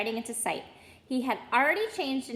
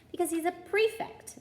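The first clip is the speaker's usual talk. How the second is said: fondly; 8 semitones higher than usual. Acted. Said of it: "said their mother fondly".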